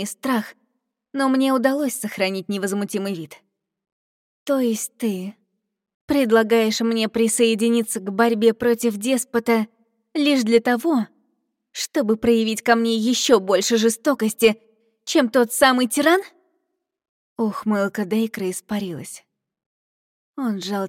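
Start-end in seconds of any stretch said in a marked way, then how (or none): 4.4-16.2 defiant. Acted. Heroine defies her captor.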